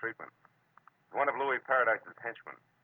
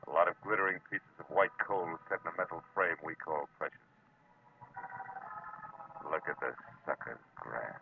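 hardboiled detective narrating the ending, unhurried; noir narration; 3 semitones lower than usual. A narrator's reading. Marlowe narrating the dawn at the pier, weary noir voice. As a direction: tell it like a tired private eye looking back.

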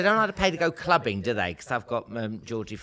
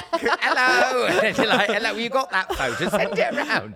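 fan voice; 9 semitones higher, 4 dB louder than usual. Retold or imitated. Acting out a fan.

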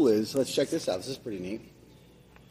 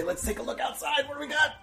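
teasing high voice. Acted. Teasing reveal of snow.

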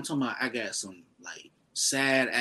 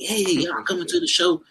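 church voice; 8 semitones higher, 5 dB louder than usual. Retold or imitated. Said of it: "he got his, like, church voice on".

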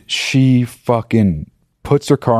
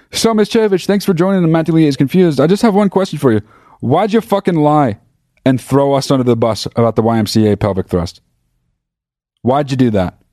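much higher, mock-accusing interviewer; mock talk-show host; 5 semitones higher than usual. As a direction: grill the teacher in a hammed-up host voice. Mock interviewing his old teacher.

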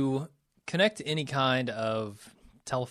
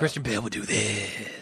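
Christian Bale Batman voice; 3 semitones lower than usual. Shown as a demonstration. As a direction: stretch the whisper out like Batman. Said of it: "he extended it".

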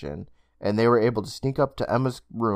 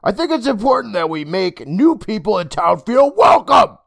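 higher, louder motherly voice, scolding; 10 semitones higher, 8 dB louder than usual. Acted. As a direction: tell your son off, gently. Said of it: "his mother scolded him".

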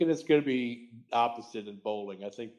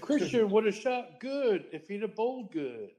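hyped-up higher announcer voice; 9 semitones higher than usual. Pretend. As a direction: boom it out like a ringside announcer. Mock announcer catchphrase.

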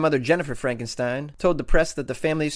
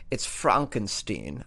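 deadpan insistence; 5 semitones lower, 4 dB quieter, much slower than usual. Acted. Deadpan reply to disbelieving caller.

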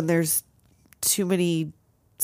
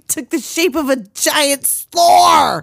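drawn-out, louder movie quote; Rick Moranis; 5 semitones higher, 4 dB louder, slower than usual. Acted. Co-host quoting the possessed man's monster speech, slow impression. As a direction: stretch it slowly, building to the last word. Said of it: "I love Rick Moranis".

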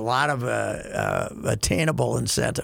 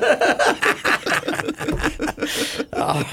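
high, long peal of laughter; real, drawn-out high cackle; hearty laugh; 12 semitones higher than usual. Real, not acted. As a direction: burst out laughing at a joke. Reaction to undercover boss joke.

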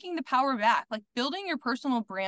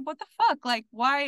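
higher, louder disbelief; exasperated mock yell; 4 semitones higher, 4 dB louder than usual. Student baffled by strict school's hypocrisy, mildly yelled exasperation. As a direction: act out baffled outrage without truly screaming. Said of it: "why I'm screaming it".

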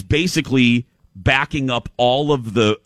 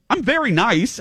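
put-on French accent; 12 semitones higher than usual. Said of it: "she has that great French accent".

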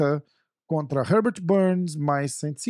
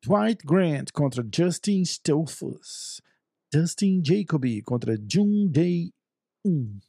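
put-on names read slowly in an American accent; slow, careful American accent on the names; slower than usual. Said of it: "Eu vou falar com sotaque americano".

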